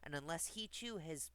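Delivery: measured storybook reading; lilting fairy tale narration; story narration. Acted. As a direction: read a rhyming tale aloud clearly.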